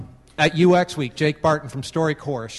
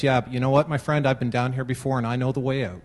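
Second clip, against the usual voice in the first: calm; 2 semitones lower than usual. Acted. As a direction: settle him down gently, unhurried. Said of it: "calmly looks at him and he goes".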